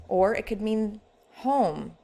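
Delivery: "home" drawn out slow with a fond falling tune; "home" stretched and tender, a homecoming; warm, like coming home. Shown as a demonstration. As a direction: say "home" slowly, glad to be back. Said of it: "like coming home".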